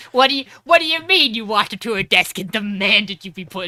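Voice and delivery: loud, disbelieving mock yell; hammed-up shocked coach; incredulous trainer. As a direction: play the stunned trainer demanding answers. Trainer shocked at her nerve.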